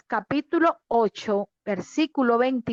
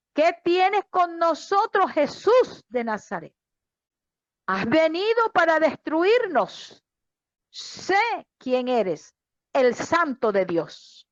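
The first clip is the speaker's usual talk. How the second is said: higher-pitched read-out cry; mild retold exclamation; 4 semitones higher than usual. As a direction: exclaim it without really shouting. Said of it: "y exclamó".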